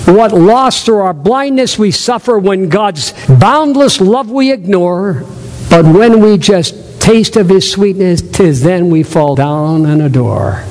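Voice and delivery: slow, measured poem reading; unhurried recitation with weighted key words; devotional reading. Acted. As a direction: read it reverently, drawing out each line.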